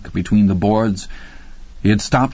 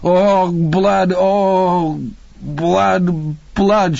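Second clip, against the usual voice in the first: high, half-mad repeated wail; hoarse hysterical; 8 semitones higher, much slower than usual. A narrator's reading. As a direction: wail it in revulsion. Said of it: "scream again, hoarsely now".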